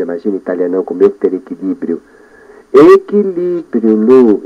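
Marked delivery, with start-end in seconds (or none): 2.7-4.4 self-talk. Shown as a demonstration. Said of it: "Eu falo comigo".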